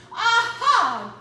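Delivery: loud, high triumphant aha; happy exclaim. Acted. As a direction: burst out with the discovery. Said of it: "exclaimed happily".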